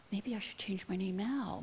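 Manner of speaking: a hushed inner whisper, fast and private; whispered thought. Retold or imitated. Walking home from the preschool, she whispers her worry to herself. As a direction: whisper the doubt to yourself. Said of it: "and I thought".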